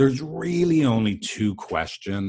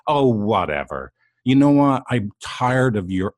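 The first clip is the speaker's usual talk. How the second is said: heated dismissal; 3 semitones higher, 4 dB louder than usual. Retold or imitated. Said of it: "partner's heated fight reply".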